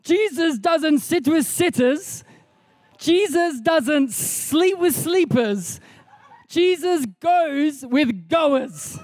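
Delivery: slow, drawn-out attempt at a German accent; Reinhard Bonnke. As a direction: have a shaky go at a German preacher's accent, very slowly. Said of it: "I always try to do the accent".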